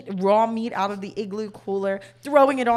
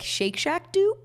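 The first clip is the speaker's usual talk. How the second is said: wry question; 7 semitones higher, slower than usual. Retold or imitated. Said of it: "I would be like".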